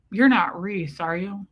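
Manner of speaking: covert question from the mouth's corner; mock-discreet sideways question; side-of-mouth talk. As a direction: imitate someone talking out of the side of their mouth. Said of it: "switch back to the middle of our mouths".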